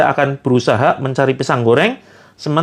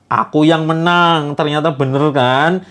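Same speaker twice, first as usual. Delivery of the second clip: gloating voice; 3 semitones higher than usual. Acted. Kodar gloats to Jabar that rizki must be sought. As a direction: crow over the win, teasing. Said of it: "Sambil dia ketawa".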